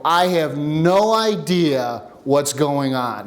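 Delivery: slow, drawn-out admission of being lost; retold frustration. Shooter confessing to his instructor mid-practice, slow retold frustration. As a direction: let the frustration stretch the words out slowly. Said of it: "when you get pushed up on frustration".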